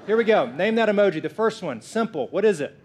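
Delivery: loud, punchy game-show announcement; game show host. Acted. Pastor kicks off the emoji game for the congregation, hyped-up announcer call.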